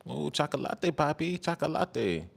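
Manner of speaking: soft, breathy Mexican accent imitation; imitating her accent. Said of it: "hit me with that accent".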